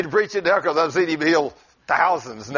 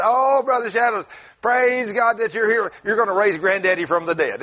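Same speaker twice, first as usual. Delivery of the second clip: mock holler, higher at the start; hollering grandchild; 5 semitones higher than usual. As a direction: imitate an excited grandchild calling out. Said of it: "he hollered at everybody heard him".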